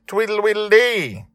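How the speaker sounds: high, loud chanted war cry; battle cry. Acted. Father cries out as the fight resumes, loud. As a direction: whoop it as you charge in.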